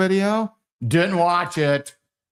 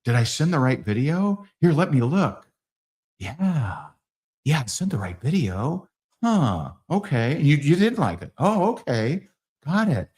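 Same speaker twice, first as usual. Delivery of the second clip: act surprised. Shown as a demonstration. Salesman feigning surprise at prospect's dislike, mild mock surprise. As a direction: feign confusion gently, trailing. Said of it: "I'm gonna act surprised".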